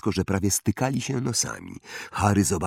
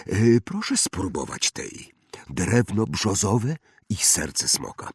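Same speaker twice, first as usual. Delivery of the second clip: put-on eccentric old wandmaker, musing; 3 semitones higher than usual. (ekscentryczny wytwórca różdżek, powolna zaduma)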